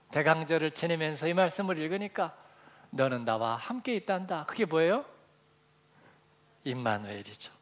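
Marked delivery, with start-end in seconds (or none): 2.9-4.4 softer repeat of 너는 나와 함께 있단다, stress on 함께; hushed echo. Shown as a demonstration. Preacher echoing the father's words to his son, softer and awed. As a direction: savor 함께 quietly, in awe. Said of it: "전율이 확 오는 거예요".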